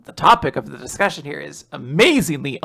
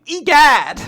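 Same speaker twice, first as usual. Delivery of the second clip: astonished Egad; 9 semitones higher, 8 dB louder than usual. Acted. Astonished exclamation.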